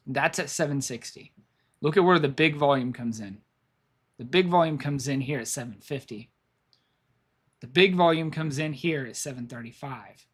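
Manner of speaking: hoarse, fading voice; losing voice. Real, not acted. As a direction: talk through a worn-out, hoarse throat. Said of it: "I'm losing my voice".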